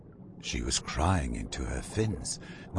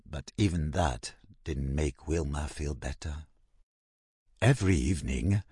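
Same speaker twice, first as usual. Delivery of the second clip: ordinary delivery, nothing marked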